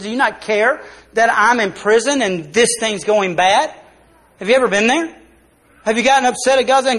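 rising frustrated plea to God; a believer's exasperated prayer; voicing a frustrated pleader. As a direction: ask God why, building in frustration. Preacher voices John's prayer.

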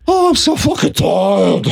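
put-on slow winded drunk voice; out of breath. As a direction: drag it out, winded. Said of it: "he moves into the low voice".

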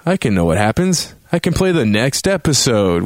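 high, delighted "oh yeah"; sudden realization. Retold or imitated. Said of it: "And then you're like".

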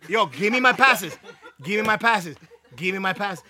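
slowing, insistent demand that sinks in pitch and volume; insistent repeated demand. Retold or imitated. Pestering the timeshare guy for passes, doggedly insistent. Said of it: "I kept going like that".

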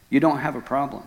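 understated calm statement; lightly voiced God, matter-of-fact; God's reply. God correcting the distraught husband, quietly matter-of-fact. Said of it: "God said".

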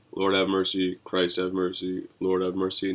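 low, rote liturgical recitation; going through the motions. Acted. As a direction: recite it by habit, pitch slightly dropped. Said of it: "go through the motions and say".

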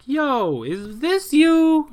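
high, slow, drawn-out accusing question; mock cop question. Police confronting the factory worker, high slow mocking question. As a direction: lay it on thick, holding up the photo.

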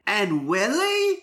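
put-on high, slow British accent; Minnie Driver accent. Skylar testing Will on the names, in a British accent. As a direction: stretch it out high with a British lilt. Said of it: "do it in the Minnie Driver accent".

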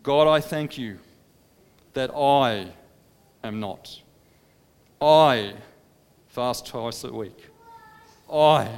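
a smug man listing his own virtues to God; boastful Pharisee. Acted. Preacher voicing the Pharisee boasting to God, proud and self-satisfied.

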